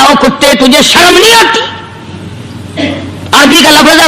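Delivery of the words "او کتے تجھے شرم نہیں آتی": a touch of an angry scold; angry rebuke. Retold or imitated. Holy man rebuking the barking dog, mildly angry. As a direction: scold the dog, pitch rising on the question. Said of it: "غصے میں آ گیا اور کہنے لگا".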